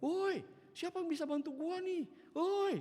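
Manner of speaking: high, loud cry for help; mock shouting. Old woman in a blackout calls for help, hammed-up yelling. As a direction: holler out for anyone to help. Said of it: "Dia teriak-teriak".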